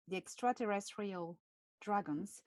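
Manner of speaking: extraterrestrial said with a French accent. Shown as a demonstration. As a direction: give it your French accent. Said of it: "how I say extraterrestrial with my French accent".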